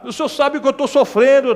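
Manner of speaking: imitating a crying believer; mock whiny prayer. Whining believer again. (oração chorosa imitada)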